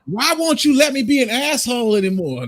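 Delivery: mock indignant complaint. Line stepper to those calling them out, mock indignant. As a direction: play up the aggrieved plea.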